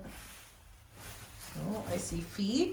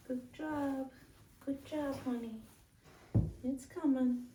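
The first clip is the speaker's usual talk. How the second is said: encouraging; 4 semitones higher, 4 dB quieter than usual. Real, not acted. Cheering animal on while birthing.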